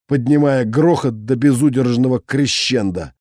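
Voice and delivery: usual speaking voice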